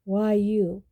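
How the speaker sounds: loud, aggressive challenge. A narrator's reading. Sirius challenging Snape, loud and aggressive. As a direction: throw the question at him. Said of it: "asked Sirius aggressively".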